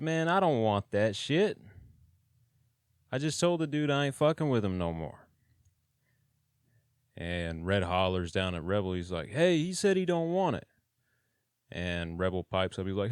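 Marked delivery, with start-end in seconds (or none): 0.0-5.3 higher, louder fed-up retort; a raised, exasperated no; irritated refusal. Retold or imitated. 9.3-10.7 much higher, louder shout down the row; raised prison-run holler. Retold or imitated. Red hollers down at Rebel.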